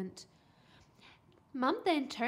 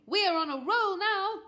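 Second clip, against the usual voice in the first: high, loud cheery mum; buoyant, louder delivery; bright enthusiasm; 8 semitones higher, 8 dB louder than usual. A narrator's reading. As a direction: celebrate a winning streak. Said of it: "said Mum brightly".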